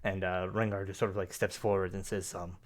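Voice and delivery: ordinary talk, nothing marked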